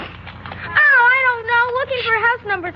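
put-on crying child. Frightened child under threat.

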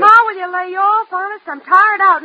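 loud, tearful plea; weary plea. Acted. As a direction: beg her to stop, near tears. Exasperated daughter pleading.

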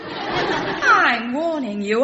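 slow, drawn-out laughing warning. Acted. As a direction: warn while trying not to laugh. Threatening while laughing.

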